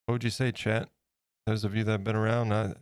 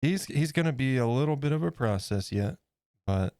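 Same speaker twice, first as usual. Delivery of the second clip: talking around a paintbrush in mouth; mumbled with a paintbrush in mouth; 4 semitones higher than usual. Real, not acted. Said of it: "Sorry, I had a paintbrush in my mouth".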